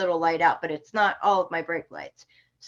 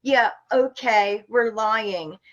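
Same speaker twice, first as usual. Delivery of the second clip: imitated scornful "ha, ha, ha"; mocking laughter; slower than usual. Officer laughing at driver who says they lie, mocking. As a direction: mimic a jeering officer, drawing out the reply. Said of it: "the officer starts laughing at me".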